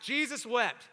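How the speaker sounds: emphatic Baptist-style call. Shown as a demonstration. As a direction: proclaim it briskly, like rousing a Baptist congregation. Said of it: "Say it like Baptist".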